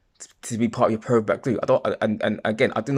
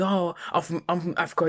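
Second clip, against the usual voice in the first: put-on higher voice, mocking; imitated proud claimant; 7 semitones higher, 3 dB quieter than usual. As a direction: pitch it up to parody an unlikely claim. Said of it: "and not the Chinese or Japanese people".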